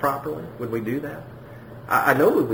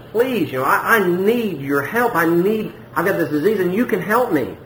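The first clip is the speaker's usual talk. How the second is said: acted plea, pitched a bit higher; begging; 4 semitones higher than usual. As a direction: plead for help, mildly acted. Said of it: "and you begged him".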